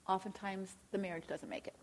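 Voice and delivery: hushed, grave whisper. Real, not acted. Preacher warning couples about failed marriages, whispered. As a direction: drop to a whisper for the hard truth.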